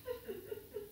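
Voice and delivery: small high whimpering sobs; quiet stuttering boo-hoo, high-pitched; soft mock crying. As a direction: pretend sniffly weeping. Sound of the snake crying in story.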